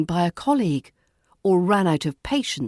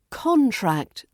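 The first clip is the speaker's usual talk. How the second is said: CONtract, with a high, falling first syllable; stress on first syllable; 5 semitones higher than usual. Shown as a demonstration. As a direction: hit CON in "contract", then fall away. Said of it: "stress falls on the first syllable".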